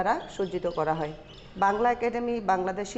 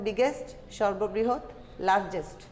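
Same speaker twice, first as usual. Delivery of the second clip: vocabulary drill. Shown as a demonstration. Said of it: "শব্দগুলো আমরা পড়ছি".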